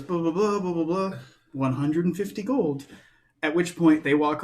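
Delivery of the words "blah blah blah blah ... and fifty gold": mock sales patter. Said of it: "she goes and she goes".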